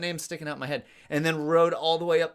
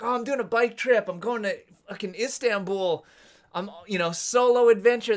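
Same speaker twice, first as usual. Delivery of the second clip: higher-pitched, eager boasting in retelling; all jazzed; 5 semitones higher than usual. Retold or imitated. Telling bakery folks about the bike trip, all jazzed. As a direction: play your younger, pumped-up self. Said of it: "I was all jazzed".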